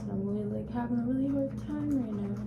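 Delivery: real hurt, held back; trying not to cry. Real, not acted. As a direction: speak while holding back tears. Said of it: "I'm trying not to cry".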